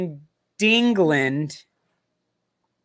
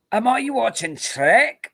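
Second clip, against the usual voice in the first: lightly put-on Scottish accent, pitched high; mock Scottish accent; 5 semitones higher than usual. Host joking about Americans doing Scottish, mock Scottish accent. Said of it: "American doing a Scottish accent is either Sean Connery or Shrek".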